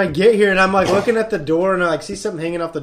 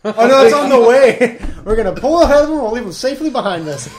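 loud mock film line through laughter; laughing movie quote; 4 semitones higher, 7 dB louder than usual. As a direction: quote the comedy, cracking up. Quoting film scene amid laughter.

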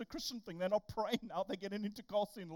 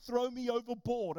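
loud resigned Jonah; 7 dB louder than usual. Retold or imitated. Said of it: "he's saying".

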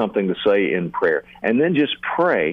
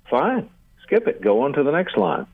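breezy dismissal; 5 semitones higher than usual. Real, not acted. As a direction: pitch jumps high on Fine, then lets it go. Brushing off an unclear verse.

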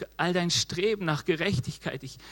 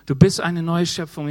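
emphatic restatement; 6 dB louder than usual. Real, not acted. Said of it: "preacher restates loud".

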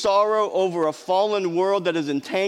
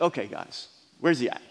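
casual Jesus; 4 semitones lower than usual. Retold or imitated. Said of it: "That's how I picture Jesus saying it".

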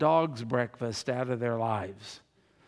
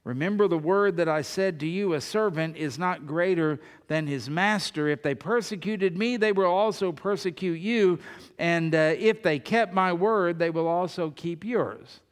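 emphatic public Bible reading; scripture reading; 5 dB louder than usual. Real, not acted. Preacher reads Jesus' words to the church, emphatic scripture reading. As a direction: read the verse out firmly to a congregation.

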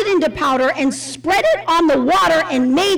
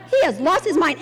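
laughing verdict; 3 semitones higher, faster than usual. Real, not acted. Repeated with a laugh.

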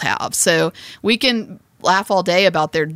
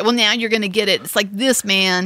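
stoner voice. Pretend. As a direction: talk like a laid-back stoner. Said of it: "Do you like my stoner voice?".

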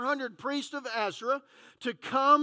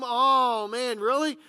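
mock taunt; slower than usual. Shown as a demonstration. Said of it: "taunt him".

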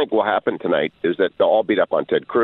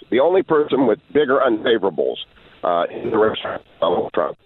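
breaking up on a bad phone line; words dropping out over the phone; tinny talking telephone. Real, not acted. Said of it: "You're breaking up your phone now".

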